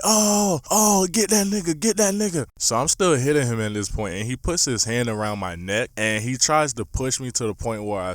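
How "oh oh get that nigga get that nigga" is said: higher, louder hype chant; a hint of a cheering crowd, higher and louder; mild mock crowd cheering. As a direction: egg on the fighter. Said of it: "people in the background screaming".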